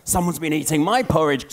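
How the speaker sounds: mama bear, voiced lightly close to plain; a hint of mama bear's complaint. Mama bear notices her porridge eaten, lightly voiced. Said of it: "said the mama bear".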